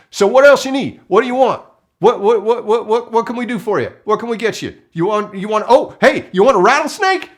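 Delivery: can't wait to help, stammer it out; frantic eagerness. Retold or imitated. Recluse eager to help the movie, frantic and excited. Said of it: "and he says".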